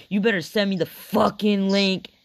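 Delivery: mock rough demand. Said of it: "why you gotta say".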